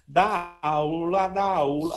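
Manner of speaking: "Dá, u, lá" sustained and run together; syllable demo. Shown as a demonstration. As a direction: demonstrate "Dá, u, lá" as a continuous tongue drill. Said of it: "pronunciando, falando a sílaba".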